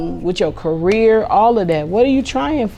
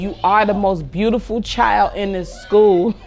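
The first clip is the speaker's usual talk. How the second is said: encouraging. Retold or imitated. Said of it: "that last word of encouragement".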